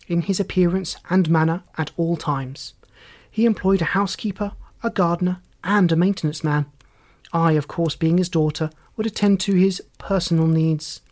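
lightly voiced formal, composed daughter; formal witness. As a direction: answer each point with firm precision. Daughter describes her father formally.

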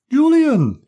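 loud high shocked cry of his name; shocked exclamation. Acted. Anne shocked at Julian's swearing, loud high cry. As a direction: scold him in shock. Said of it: "exclaimed Anne, blushing".

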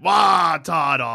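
Wario-like Wartortle. Pretend. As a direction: bark the name like Wario. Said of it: "Wartortle is, like, a bit".

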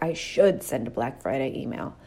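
a burdened, reluctant I should; dreading tone. Shown as a demonstration. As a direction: sound weighed down by the obligation. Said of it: "you feel how terrible that is in my voice".

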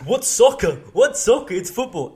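high, loud indignant commenter; mock outrage. Mimicking commenters on every TikTok video, loud mock outrage. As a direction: protest it like an outraged pedant.

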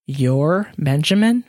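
slow, lightly horrified question; a touch of dread, slowed. Acted. Miriam learning Benjamin has her phone, mild horror.

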